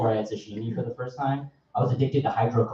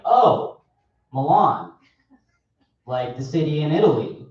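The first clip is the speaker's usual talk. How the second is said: mock eager barista; 3 dB louder, much slower than usual. Imitating barista.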